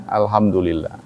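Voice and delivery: soft, low murmured thanks to God; unbothered reply. Acted. Speaker showing how he simply replies, unbothered and quiet. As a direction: drop low and soft, brushing it off.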